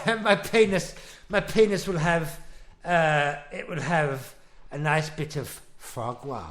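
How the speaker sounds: put-on posh old-film gent. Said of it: "like the old British films".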